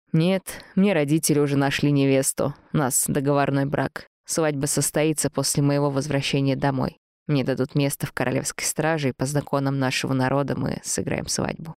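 put-on slightly subdued, even young man's reply; a hint of Lars the guard, matter-of-fact; lightly voiced young guard.

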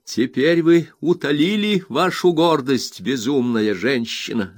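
high, slow, seething scorn at the mother; Rosa, bitter and scornful. A narrator's reading. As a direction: drawl it out with cold contempt. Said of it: "сказала она". (высокий, медленный, язвительный голос Розы)

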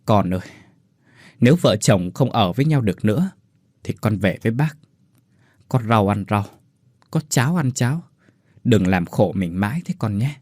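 gentle tearful aunt; tearful plea. Acted. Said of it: "trào ra hai hàng nước mắt rồi bảo".

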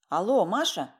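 ordinary delivery, nothing marked

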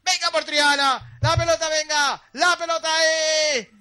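football match commentary; live play-by-play. Pretend. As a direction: call the match like a radio commentator. Mock play-by-play of the final. (narración deportiva en directo)

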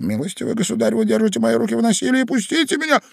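high, loud, rising outrage; indignant protest. A narrator's reading. Ivan protesting as his hands are held, indignant. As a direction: build to a high plea for release.

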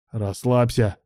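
ordinary delivery

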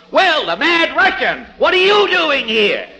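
high, loud, overdone surprised greeting; mocking comedian surprise. Fred Allen mocks radio comedians with overdone surprise. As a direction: mimic a radio comic's fake astonishment. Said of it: "comedians who always act so surprised".

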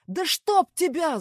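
very loud, slow, high bellow of rage; all-out angry roar; furious yell. A narrator's reading. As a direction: explode at the screen. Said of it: "заорал Костя".

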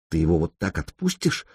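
soft low hissing whisper; hissed protest. A narrator's reading. Evdokia hissing to Sanyok about letting him go, low whisper. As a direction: hiss it close to his ear. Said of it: "прошипела Евдокия".

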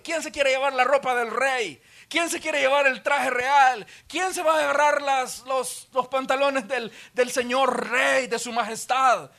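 mock the king's clothes like a game; mocking soldiers. Soldiers jeering over the king's robe, mocking.

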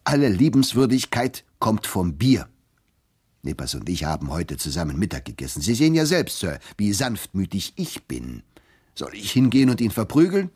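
the beer-happy clerk loudly offering to thrash him. Acted. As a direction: boom it out, beer-happy and pushy. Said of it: "mischte sich Turkey lauthals ein".

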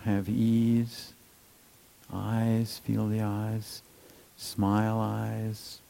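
soft, unhurried body-scan cue; gently name the forehead as you scan; little meditator's voice. Shown as a demonstration. Teacher demoing a kindly body scan, soft meditator's voice. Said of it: "you can use a little voice".

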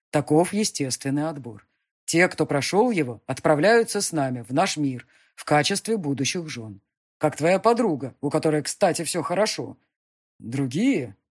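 loud, cold demon emperor. Acted. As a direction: state it as law. Demon speech.

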